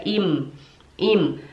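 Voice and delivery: ihm closing on a held M; chewed M. Shown as a demonstration. Teacher reminds learners to chew the M, held hum on ihm. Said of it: "a gente tem que mastigar ele".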